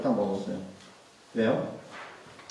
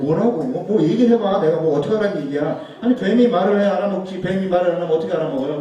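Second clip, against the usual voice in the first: loud, high, exasperated rebuttal; exasperated shout; 4 semitones higher, 6 dB louder than usual. Real, not acted. Preacher shouting back at people who mock the talking serpent, exasperated. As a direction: throw up your hands and shout back at the doubters.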